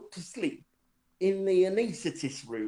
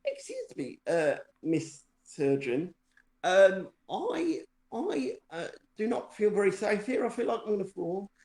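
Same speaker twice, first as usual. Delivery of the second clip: mock polite plea. To the surgeon, a mock-polite fearful plea. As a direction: ham up a timid polite request. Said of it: "so I'm like".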